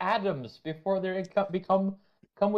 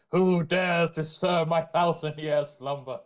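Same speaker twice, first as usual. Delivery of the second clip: ancient rasping undead king; 3 dB louder than usual. Retold or imitated. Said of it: "This Sultan's beginning to talk".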